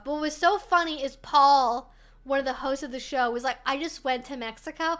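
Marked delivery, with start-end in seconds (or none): 3.7-5.0 lightly put-on Valley Girl accent. Streamer mocking a British baking show host, light Valley Girl accent. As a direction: mimic him as a Valley Girl, uptalking. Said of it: "gonna do him in a Valley Girl accent".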